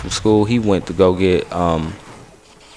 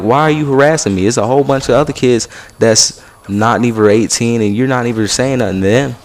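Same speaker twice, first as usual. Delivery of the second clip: higher, indignant and louder; retold protest; 3 semitones higher, 4 dB louder than usual. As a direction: push back hard like you're being wronged. Teen protesting unfair treatment to guard.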